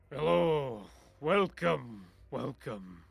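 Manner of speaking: booming innkeeper-style welcome, easing off; big booming welcome that slows as it goes; deep, booming voice. Acted. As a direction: boom out the greeting, then settle into a slow finish. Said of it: "in a deep, booming voice".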